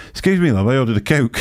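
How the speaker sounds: mock Steve. Steve teasing the waitress, lightly high cheeky request. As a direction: play it innocently cheeky. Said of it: "Steve says".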